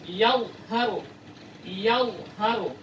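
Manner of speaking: "yadhharu" slow with a clear dha; slow recitation; slow Quranic reading. Shown as a demonstration. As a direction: draw out the dha. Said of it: "Untuk huruf dha".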